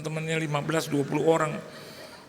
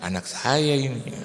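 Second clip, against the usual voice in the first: Batak man; 3 semitones lower, 4 dB louder than usual. Retold or imitated. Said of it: "ada orang Batak di sebelah saya".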